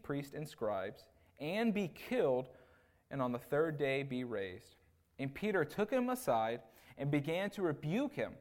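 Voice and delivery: measured, emphatic Bible reading; deliberate public scripture reading. Acted. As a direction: read the verse out firmly, leaning on key words. Reads scripture aloud.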